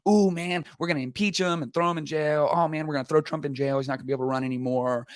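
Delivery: mildly excited imitation, speeding up as it goes; mock excitement. Partisan reacting to accusations against the other side, mock excited. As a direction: lightly act out partisan glee, rushing the last words. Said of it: "everyone gets really excited".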